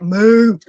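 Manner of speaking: a short imitated cow moo; mock moo. Recalling her roommate's stuffed cow, a mock moo. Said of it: "I was like".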